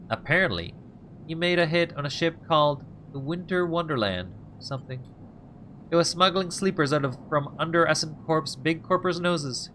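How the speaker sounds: a hint of a sly informant, unhurried; lightly voiced scheming crook. Voices Ethan.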